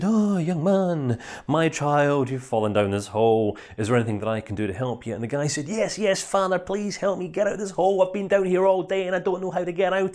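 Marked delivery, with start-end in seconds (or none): 0.0-5.1 lightly hammed-up vicar; pious minister. Minister addresses man in hole. 5.7-10.1 higher, pleading voice to the priest; mock desperate begging; desperate plea. Man pleads with minister.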